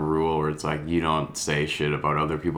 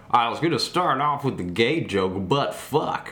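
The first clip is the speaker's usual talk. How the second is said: imitating nervous comic; 4 semitones higher than usual. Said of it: "you know, like".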